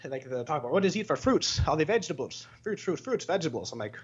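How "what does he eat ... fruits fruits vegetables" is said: high-pitched mock Indian accent. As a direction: put on an Indian commenter's accent. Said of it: "like, fucking India".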